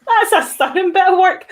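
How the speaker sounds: said through laughter, high; laughing. Real, not acted. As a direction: still cracking up as you speak. Laughing at the joke.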